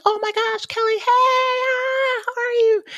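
very high, gushing squeal of delight; overexcited greeting. Retold or imitated. Friend spotting Kelly, squealing very high with delight. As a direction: greet her like a long-lost best friend. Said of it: "someone sees me and they're really excited".

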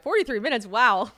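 giggly mock shock at the clock; laughing surprise. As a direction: catch yourself talking too long, amused. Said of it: "I'm like".

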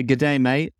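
terrible hammed-up Australian accent; lightly put-on Aussie twang. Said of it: "I'm gonna continue to do a terrible Australian accent".

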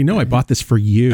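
playful fake sweetness; coy mock gift. Shown as a demonstration. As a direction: pretend it was bought just for them. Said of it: "You should say".

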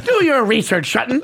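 lightly voiced newsman, stretched DO; a hint of the anchor's delivery on "Do"; Ken Brockman imitation. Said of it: "This is the way he says it".

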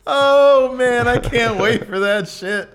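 can't contain the glee; laughing excitedly. Real, not acted. Laughing excitedly about coming date.

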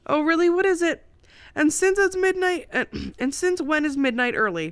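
high, loud, excited questions; eager anticipation. A narrator's reading. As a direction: pounce on the news with eager curiosity. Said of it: "The anticipation of her voice".

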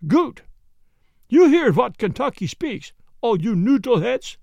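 put-on loud, high, gloating German-accented Jan. Jan gloats to the men in a loud German accent. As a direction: crow it out in a thick German accent.

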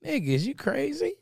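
high, fast indignant rant; outraged disbelief, pitched high; incredulous outburst. Real, not acted. Indignant mock-outrage about mask.

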